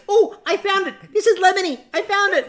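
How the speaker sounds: mock thrilled find; excited discovery. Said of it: "Ella goes".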